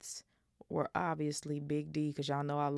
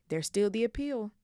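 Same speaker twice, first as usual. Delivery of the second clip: louder, higher fierce insistence; 6 semitones higher, 5 dB louder than usual. A narrator's reading. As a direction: push back hard, don't give up. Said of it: "said Ron fiercely".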